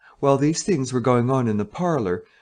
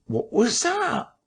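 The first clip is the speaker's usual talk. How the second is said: puzzled listener; slower than usual. Acted. Whispered question at the door.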